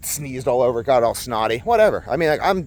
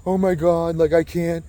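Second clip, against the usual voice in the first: mock overwhelmed parent. Mocking overwhelmed permissive parents.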